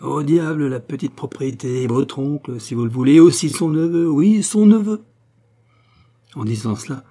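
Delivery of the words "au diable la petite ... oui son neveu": rising into a loud, high, jeering shriek; mocking taunt building to a shrill-free loud high jeer; sneering cackle. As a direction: jeer at him, getting louder and higher. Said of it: "ricanait et faisait une affreuse grimace".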